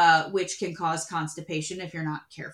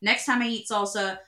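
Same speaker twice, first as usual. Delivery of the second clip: normal talking voice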